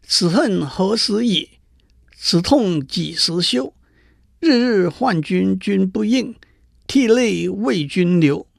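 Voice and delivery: slow, lingering recital of a mournful poem; poem recitation. Acted. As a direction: chant each line slowly like a lament. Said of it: "他念了一首诗说". (缓慢吟诵的哀伤诗句)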